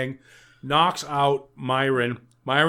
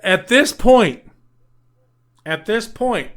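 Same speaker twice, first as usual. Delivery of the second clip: incredulous rant; 3 semitones higher, 4 dB louder than usual. Real, not acted. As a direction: rant in outraged disbelief. Ranting about film plot.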